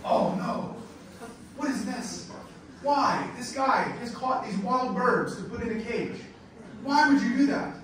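reliving the shock of finding caged birds. Retold or imitated. Tour leader recalling spotting caged wild birds, shocked outcry. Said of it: "and then I was shocked".

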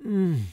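high, contented hum; pleased mm. A narrator's reading. Duchess tastes her sweet roll, pleased hum. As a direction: hum over a tasty bite.

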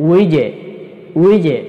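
উইজে with the final j bounced; qalqalah. Shown as a demonstration. Quran teacher showing qalqalah on jim, উইজে with a bounced j. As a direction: release the j of উইজে with a short echoing bounce. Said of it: "কলকলাহ রয়েছে".

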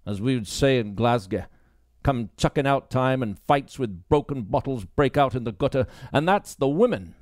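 dismissive police sergeant lecturing a new recruit; gruff sergeant. Acted. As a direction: talk down to her as the stern boss. Baines continues speaking.

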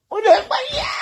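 high loud mock cry. Vlogger mocking a cry from the video, high and loud. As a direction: shriek it in mockery. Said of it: "ó wá ṣe".

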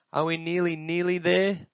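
put-on high, sustained child's whine; nagging high-pitched child; impatient little one. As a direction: pester with a pleading question. Impatient child on long walk.

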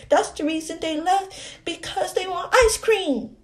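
put-on childlike, chatty explaining voice; little girl. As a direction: talk like a small child telling tales.

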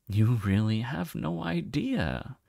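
slow, soft musing with a hint of puzzlement; musing, puzzled. The mysterious voice marveling at Moon's ignorance, slow puzzled musing. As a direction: turn the thought over slowly, half-puzzled. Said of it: "the voice mused with a hint of puzzlement".

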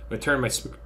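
speaking through hiccups; a hiccup cuts the word off. Real, not acted.

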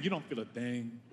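cold and quiet. Shown as a demonstration. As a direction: say You don't feel a thing dropped low and flat. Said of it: "repeated, second dropped".

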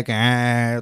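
drawn-out "kain" mimicking a rickshaw; imitated rickshaw noise. Guest tells host of missing rickshaw sounds, imitated engine noise. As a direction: imitate a chingchi's drone in one syllable. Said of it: "चिंची की आवाज़ ना आए".

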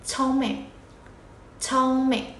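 "Chong mẹ" with "mẹ" short and light; short light second syllable. Shown as a demonstration. Teacher on half-length sounds, "mẹ" read short and light. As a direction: hold "Chong", barely touch "mẹ". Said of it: "đọc nhẹ nhỉ".

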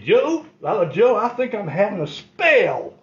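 put-on slow, loud, whiny old man; milk a fake sick spell for sympathy; faking a spell. Grandpa faking illness to escape.

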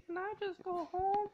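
high, loud frantic plea; panicked whine. Real, not acted. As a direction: beg to escape in panic. Being chased by zombies.

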